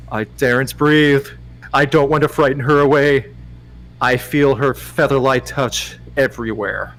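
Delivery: measured romance audiobook narration; story narration. Acted. Narrator reading a romance to Dom, measured storytelling. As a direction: read the love scene deliberately. Reads a romance novel aloud.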